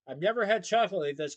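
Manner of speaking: loud, joyful exclamation; cry of joy. Acted. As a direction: burst out with delight. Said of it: "Colin's cries of joy".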